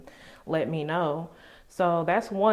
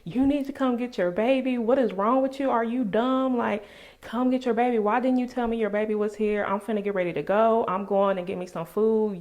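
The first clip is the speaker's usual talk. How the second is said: raised, heated telling-off; mock angry phone rant, higher and louder; cursing her out; 4 semitones higher, 3 dB louder than usual. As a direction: chew her out over the phone. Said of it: "cursing her out on the phone".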